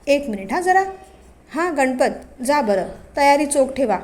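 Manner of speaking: a hint of a sly, bossy village headman; village patil. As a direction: patil talking over his son, lightly voiced. Aaba the village patil voiced.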